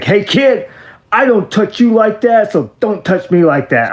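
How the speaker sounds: high mock voice of a rude wrestler; imitating Lex Luger. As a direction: mimic the star brushing off a fan. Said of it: "looks at me and said".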